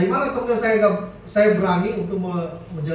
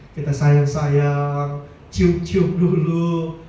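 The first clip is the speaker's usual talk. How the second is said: very slow, tender coaxing; 4 semitones lower, much slower than usual. Retold or imitated. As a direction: stretch it out like cuddling a sleepy child. Tender advice on waking children. (lembut dan pelan sekali)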